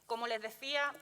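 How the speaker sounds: muffled speech through a mask; talking behind a face mask. Real, not acted. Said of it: "hablar con la mascarilla es, eh, complicado".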